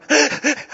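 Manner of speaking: high, gasping re-enacted sobs; short burst of mimicked sobbing; imitated sobbing. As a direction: act out sobs you can't stop. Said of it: "I was sobbing".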